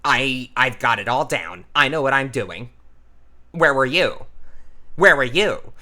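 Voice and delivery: a hint of neurotic, jabbing out brief phrases; neurotic, clipped character. Shown as a demonstration. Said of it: "he might be a bit neurotic".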